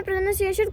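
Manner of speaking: "प्रोनाउंसिएशन" with NOUN in the second syllable, pro-NOUN-ciation; wrong pronunciation. Shown as a demonstration. Teacher quoting a common learner error, "प्रोनाउंसिएशन" mispronounced as pro-noun-ciation. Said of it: "ये गलत है".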